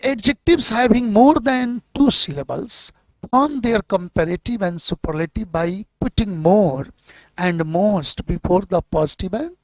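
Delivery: reading the English rule aloud slowly and deliberately. Shown as a demonstration. Teacher reads the grammar rule to the class, slow and deliberate. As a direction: spell out the textbook rule word by word.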